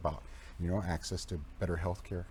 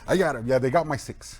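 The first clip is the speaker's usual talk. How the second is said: laughing, louder and higher; 4 semitones higher, 9 dB louder than usual. Real, not acted. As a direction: chuckle it out proudly. Laughing about veteran buddies.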